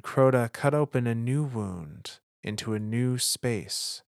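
measured, solemn lore reading; dramatic audiobook narrator, unhurried; story narration. A narrator's reading. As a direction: read it like an ancient chronicle, with weighty pauses. Reads a lore chapter aloud.

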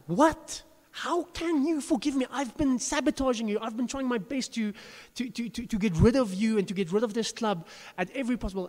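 high, incredulous woman's voice; a mock astonished owner, pitched high; shocked disbelief. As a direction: play her stunned, pitch up high.

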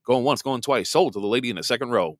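fast auctioneer patter. Pretend. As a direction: rattle it off like an auction. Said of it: "I sound like an auctioneer".

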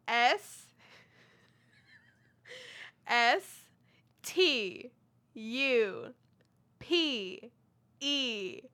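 letter by letter, laughing at the end; spelling it out. Shown as a demonstration. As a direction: spell each letter, giggling. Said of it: "Let me start over".

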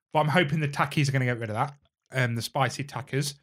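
talking with chocolate in mouth; spit take. Real, not acted. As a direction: mouth full of chocolate, spluttering. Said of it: "I've just spat chocolate on the microphone".

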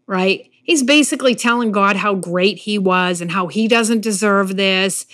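ordinary delivery

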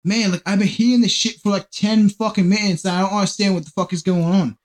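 put-on botched British accent drifting toward Australian; wandering accent attempt. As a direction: retell it in an accent that keeps slipping into Australian. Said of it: "I'm going into fucking Australia".

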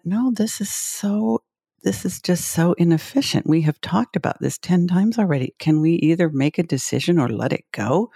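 mild mock impatience at a pointless meeting; exasperated retelling. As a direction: replay the exasperation, lightly.

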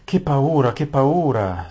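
high, loud frightened lament; frightened wail. A narrator's reading. Scared maid moaning in fright to Aravis, loud high wail. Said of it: "si lamentò la Saralin".

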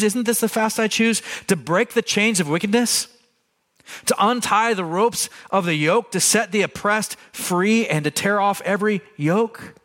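scripture re-read as a sermon climax; preached scripture. Acted. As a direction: proclaim the passage to the congregation. Rereads passage, preached.

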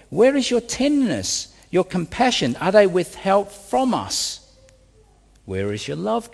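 acted-out complaint, pitch lifting on the questions; voiced complaint. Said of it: "So they complained to God".

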